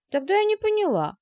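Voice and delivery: a puzzled, amused small daughter; giggly little girl. A narrator's reading. Daughter questions what the fathers said, giggly and high. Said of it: "хихикнула дочка".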